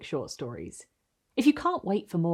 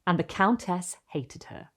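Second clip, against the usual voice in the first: soft, hushed reading of a story line; gentle literary read-aloud; 3 dB quieter than usual. Acted. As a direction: read it like a teaser from the book. Opening teaser read from story.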